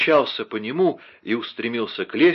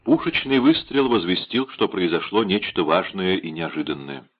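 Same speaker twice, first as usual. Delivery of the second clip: ordinary delivery, nothing marked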